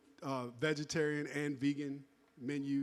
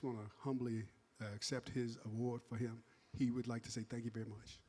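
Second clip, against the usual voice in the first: changed voice for Mo; 3 semitones lower than usual. Retold or imitated. Accepting the award for absent Mo, in a lightly changed voice. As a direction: lightly put on a voice for the absent founder. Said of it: "I'm trying to change up my voice".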